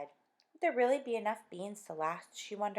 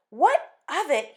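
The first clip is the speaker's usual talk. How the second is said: higher, louder repeat; eager echo; 9 semitones higher, 13 dB louder, slower than usual. Acted. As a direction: toss her words back eagerly. Husband echoing wife's question.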